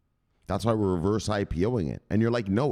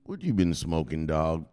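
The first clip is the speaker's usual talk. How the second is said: higher jeering street voice; mocking neighbors; 6 semitones higher than usual. Neighbors mocking Noah, a touch of high ridicule. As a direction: laugh him off, high and scornful. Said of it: "everyone around him laughed at him like".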